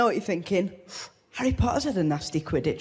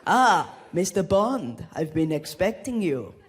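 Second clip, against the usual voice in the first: slow, lower, menacing Bond-villain line; 3 semitones lower, slower than usual. Retold or imitated. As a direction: drawl it out like a film villain. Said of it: "being James Bond".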